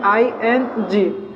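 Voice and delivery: slowly stretched letters; drawn out. Shown as a demonstration. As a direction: draw out आईएनजी slowly for the class. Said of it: "क्या देना है?". (आईएनजी को धीरे-धीरे खींचकर बोलना)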